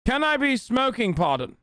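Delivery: high mock voice, then dropping; imitating her. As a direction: parrot her question in a high voice. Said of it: "She says".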